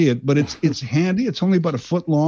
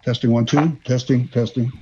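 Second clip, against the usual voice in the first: mic check through a megaphone; testing the megaphone, spoken through it. Real, not acted. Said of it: "I just hit the wrong button here".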